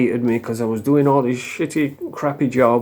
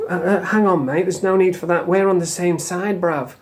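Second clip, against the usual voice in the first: cringey placating; 2 semitones higher than usual. Retold or imitated. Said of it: "he said, cringe as fuck".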